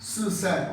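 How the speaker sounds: सी सैन started high and dropped sharply, fourth tone. Shown as a demonstration. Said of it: "माने fourth टोंग".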